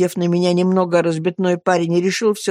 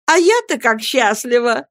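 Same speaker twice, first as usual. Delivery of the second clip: put-on bright, slightly higher girlish joy; laughing and blushing; 5 semitones higher than usual. A narrator's reading. Sophie to her husband's friend, a hint of shy laughter. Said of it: "смеясь и краснея".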